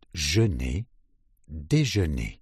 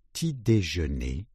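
quick rising try; faster than usual. Shown as a demonstration. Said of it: "we say each syllable in turn".

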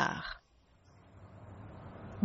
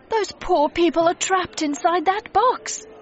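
high-pitched, horrified cry; alarmed shout; 10 semitones higher than usual. A narrator's reading. Mister Logan sees people inside a television, alarmed shout. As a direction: raise the pitch in urgent alarm. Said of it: "he shouted".

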